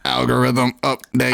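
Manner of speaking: flat, even robot monotone. Shown as a demonstration. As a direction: speak it like a machine. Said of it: "You gotta speak like a robot".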